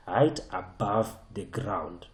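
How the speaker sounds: slow, with "above" drawn out; emphatic. Real, not acted. Teacher correcting a common student mistake, slow and emphatic. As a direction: stretch "above" deliberately to drive it home. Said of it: "I can't emphasize that enough".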